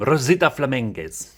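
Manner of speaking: lightly rolled Spanish name; elegant Spanish accent. Acted. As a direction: say it with a slight Spanish flourish. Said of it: "like, a really, um, elegant".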